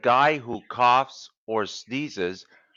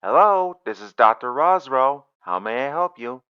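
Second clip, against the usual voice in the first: doctor voice; 3 semitones higher, 10 dB louder than usual. Acted. Doctor answers phone.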